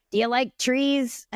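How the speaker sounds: playful pirate growl. Retold or imitated. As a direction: ask it like a pirate. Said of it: "did she say it like a pirate".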